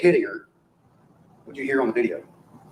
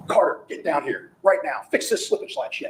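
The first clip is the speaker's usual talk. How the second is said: mock yell, slow start climbing higher; retold yell; 6 semitones higher than usual. Lawyer acts out father ordering child downstairs, mock yell. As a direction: imitate a yell without full volume. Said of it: "his response is to yell at Carter".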